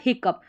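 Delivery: "हिकअप" with a final p sound; "ough" as up. Shown as a demonstration. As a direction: say "हिकअप" ending in "up". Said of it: "अप करके आ रहा है".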